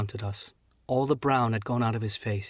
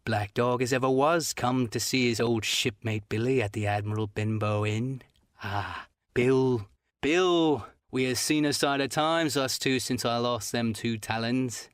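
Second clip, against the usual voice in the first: put-on pleading old shipmate. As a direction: coax him like an old friend, slowly. Black Dog at ease.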